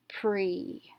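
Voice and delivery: "pre" with a long ee; "pre" said alone as an open syllable; long vowel. Shown as a demonstration. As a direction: blend "pre" into one syllable, rhyming with "tree". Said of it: "make a long vowel sound".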